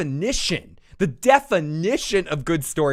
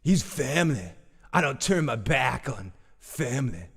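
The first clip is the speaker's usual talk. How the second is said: Daryl impression; 3 semitones lower than usual. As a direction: mumble it like Daryl. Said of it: "Now you gotta do the, the Daryl thing".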